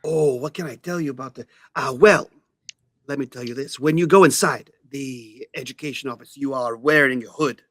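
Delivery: lightly voiced owl, measured; knowing owl. Owl Jorge briefing visitors on the education office, knowing and lightly voiced. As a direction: explain it like a worldly owl informant.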